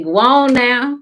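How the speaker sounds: loud, high shout; spirit shooing you off. Acted. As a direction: shout it high to send someone away.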